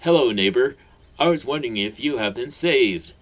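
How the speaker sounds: loud, cheerful preacher greeting; bright exclamation. Acted. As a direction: beam it at the neighbour. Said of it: "Hagrid exclaimed brightly".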